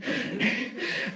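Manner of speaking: teary half-laugh sigh; unsteady exhale holding back tears; shaky sigh. Real, not acted. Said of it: "I'm trying not to cry".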